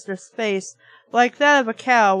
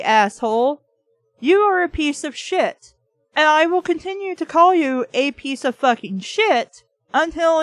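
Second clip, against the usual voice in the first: mock telling off; 2 semitones higher than usual. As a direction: lay into him word by word. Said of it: "you can go over there and be like".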